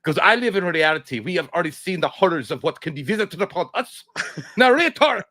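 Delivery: lightly voiced grave father; grim dad. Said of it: "He's like".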